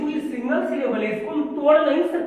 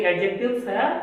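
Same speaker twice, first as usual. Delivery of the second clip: slow dictation; much slower than usual. Acted. Teacher dictates slowly.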